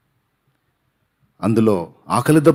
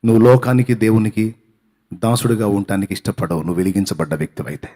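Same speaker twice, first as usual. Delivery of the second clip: usual speaking voice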